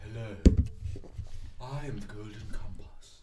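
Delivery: compass voice. Acted. Mates voicing a magic compass.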